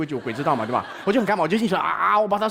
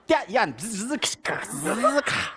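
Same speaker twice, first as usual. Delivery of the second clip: helmet sound effect; much slower than usual. Retold or imitated. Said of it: "变身了，好帅".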